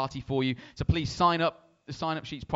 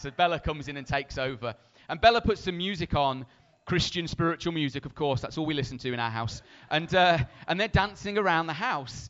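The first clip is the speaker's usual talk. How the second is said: usual speaking voice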